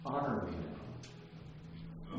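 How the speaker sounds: mock royal demand, slowed right down; drawn-out mock demand. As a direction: stretch it out like a proud king. Saul's proud demand, mocked.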